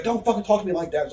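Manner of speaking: high-pitched retold warning; mock offended. Hothead warns her off backstage, mock offended. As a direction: imitate him taking heated offence.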